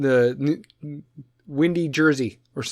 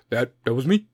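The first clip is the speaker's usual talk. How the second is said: halting politician impression, trailing lower and softer; mock statesman taking credit haltingly; Obama; 5 semitones lower, 5 dB quieter than usual. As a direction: hesitate with long low "uh"s. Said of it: "Obama's like".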